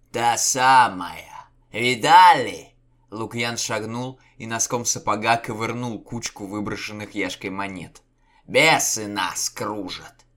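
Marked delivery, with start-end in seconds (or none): 0.1-2.7 slow, high and loud; excited shout. A narrator's reading. Cossack exclaims in eerie valley. 8.5-10.3 frightened cry. A narrator's reading. Panicked cry among cossacks.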